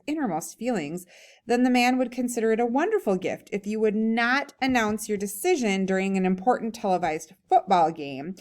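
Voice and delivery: lively, emphatic story reading; humorous read-aloud. A narrator's reading. Reading a comic essay to a class, animated read-aloud. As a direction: read it aloud with punchy key words.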